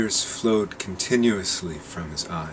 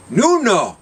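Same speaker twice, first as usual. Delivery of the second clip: a much higher, louder cry of disbelief; astonished exclamation; 14 semitones higher, 10 dB louder than usual. Acted. Captors crying out to each other in disbelief, astonished. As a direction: blurt it out like you can't believe it. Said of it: "they said each to e".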